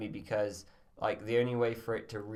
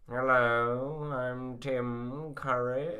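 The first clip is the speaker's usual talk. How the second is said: Tim Curry voice; much slower than usual. Pretend. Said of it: "roleplay that one".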